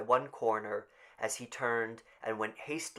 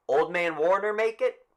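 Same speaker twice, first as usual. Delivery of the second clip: calling out; 8 semitones higher, 8 dB louder than usual. Acted. Official calls out.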